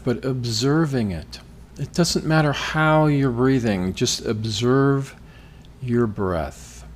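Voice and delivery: measured meditation-leader delivery; guided meditation. Acted. Podcast host guides listeners through breathing, guided meditation. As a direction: guide them step by step, leaving pauses.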